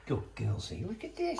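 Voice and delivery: pet voice. Real, not acted. Talking to the cat.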